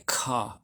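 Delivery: Ka with a crisp hard K; a clean stop, Ka; hard K sound. Shown as a demonstration. Teacher showing students the Kaf with Dagesh, a crisp K. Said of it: "it's pronounced like a K".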